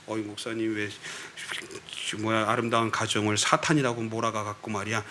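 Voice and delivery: low, softened grumbling complaint; inward grumble. Pretend. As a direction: grumble as if only to yourself. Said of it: "속으로만 하셔야 돼". (낮게 속으로 투덜대듯)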